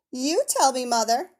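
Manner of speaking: put-on high, earnest child voice; serious little girl. A narrator's reading. Pearl asks her mother seriously, high child voice. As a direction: ask it gravely like a solemn child. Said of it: "said the child seriously".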